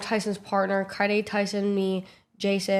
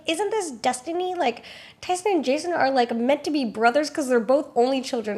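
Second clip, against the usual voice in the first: higher, dreamy mock mom voice; gushing drunk mom; 4 semitones higher than usual. Narrator imitating her drunk mom about destiny, high dreamy coo. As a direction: coo it like a tipsy romantic.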